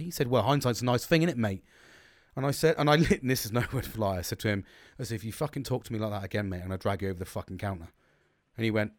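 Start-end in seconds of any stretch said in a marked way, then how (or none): 0.3-1.6 mildly sarcastic, understated retort. Retold or imitated. Mechanic repeats his retort to the customer, sarcastic. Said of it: "said it in such a sarcastic way". 5.2-7.9 low, soft, controlled menace; retold threat, kept low and quiet. Angry customer warns mechanic across the counter, quietly menacing.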